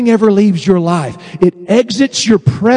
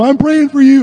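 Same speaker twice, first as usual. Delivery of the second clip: mock sympathy; 6 semitones higher, 3 dB louder than usual. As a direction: gush with exaggerated church-friend sympathy. Mimics sympathetic friends.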